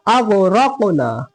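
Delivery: अग़रक़ना with a thick "ro", slow; heavy ra. Shown as a demonstration. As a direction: make the र in अग़रक़ना full and heavy. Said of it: "इसको मोटा".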